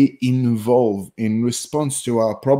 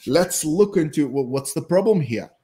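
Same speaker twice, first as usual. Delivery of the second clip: lightly voiced scientist, higher pitched; inner scientist; 5 semitones higher than usual. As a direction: play a mildly intrigued scientist. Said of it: "the scientist in me goes".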